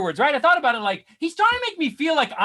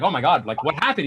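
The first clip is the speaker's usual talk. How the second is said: low shocked mumble; 10 semitones lower than usual. Retold or imitated. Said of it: "I was like".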